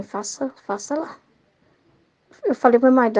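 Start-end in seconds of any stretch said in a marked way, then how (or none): 0.0-1.2 much softer, gentle nudge; a quiet inner voice saying do it; soft urging Jesus. Acted.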